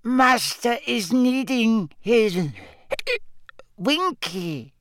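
a heartbroken little elf begging; whimpering elf. A narrator's reading. Winky pleads over her master, whimpering high. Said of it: "whimpered the elf".

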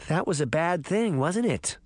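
a touch of sheepishness; sheepish. Acted. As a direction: admit it with embarrassed hesitance.

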